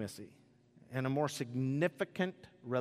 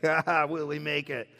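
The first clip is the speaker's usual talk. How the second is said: nervous gamble; 3 dB louder than usual. Retold or imitated. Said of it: "and I'm just like".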